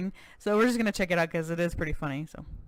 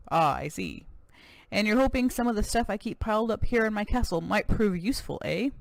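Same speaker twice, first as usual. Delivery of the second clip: lightly voiced American cowboy governor, proud; a touch of boastful Texan governor; 3 semitones higher than usual.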